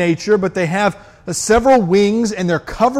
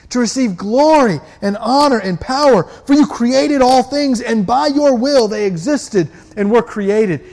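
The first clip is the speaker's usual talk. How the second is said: crying out; 4 semitones higher than usual. Acted. Elders around the throne crying out, fervent praise. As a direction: proclaim it up to the throne. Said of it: "They're crying out".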